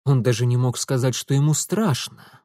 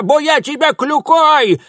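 very high, loud threat; threatening yell; 13 semitones higher, 8 dB louder than usual. Acted. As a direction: shriek a threat with the cane raised. Old woman threatening with cane.

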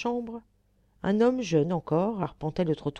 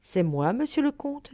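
timidly; 8 semitones higher than usual. A narrator's reading. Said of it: "dit-il timidement".

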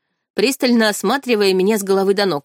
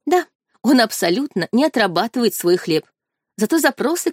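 plain reading voice

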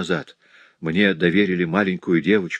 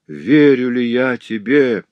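higher, louder, slow; exclaiming; 5 semitones higher, 6 dB louder, slower than usual. A narrator's reading. Cecily exclaiming back to Jacques, slow and higher. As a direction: draw it out in exclamation. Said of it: "воскликнула креолка".

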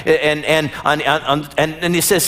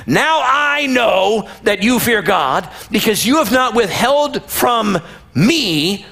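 higher, ringing proclamation slowing at the end; proclaiming shout; 6 semitones higher, slower than usual. Retold or imitated. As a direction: announce it from heaven. Angel proclaiming loudly.

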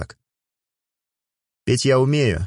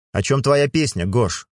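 put-on lightly higher girl's voice; young woman's question; 4 semitones higher than usual. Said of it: "спросила она".

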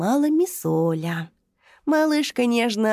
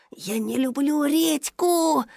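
frightened whisper; 4 semitones higher than usual. Acted. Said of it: "испуганным шёпотом ответил жёлтый дракоша".

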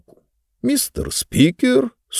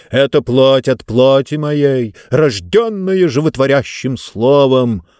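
didactic; 2 semitones higher, 4 dB louder, slower than usual. Acted. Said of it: "назидательно сообщил".

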